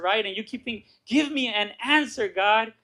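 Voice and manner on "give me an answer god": anxious plea. Retold or imitated. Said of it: "anxiety of just thinking".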